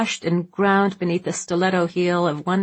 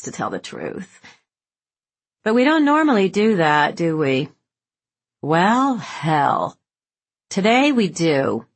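put-on loud drunk socialite; 3 dB louder than usual. Slim, drunk, ordering loudly.

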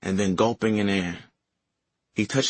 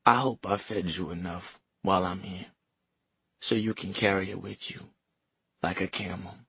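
weak grandmother; 5 dB quieter than usual. Acted. Dying grandmother speaks.

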